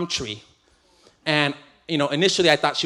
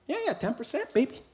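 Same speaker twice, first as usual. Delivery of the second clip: cocky husband; 8 semitones higher, 8 dB quieter than usual. Retold or imitated. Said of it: "And I was like".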